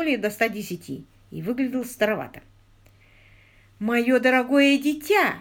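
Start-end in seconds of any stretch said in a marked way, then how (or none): 3.8-5.4 put-on high, loud, drawn-out old man's voice; very high croak. A narrator's reading. Ancient bearded visitor greeting his child, high croaking voice. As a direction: croak it out slowly, pitched up. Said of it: "заквакал он очень высоким голосом".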